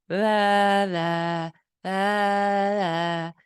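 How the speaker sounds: "La, la, la, la" with a flat uh-like vowel; child's centralized vowel. Shown as a demonstration. Therapist mimicking a child who cannot say the diphthong. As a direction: sing "La" with no diphthong, short and even. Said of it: "they would go".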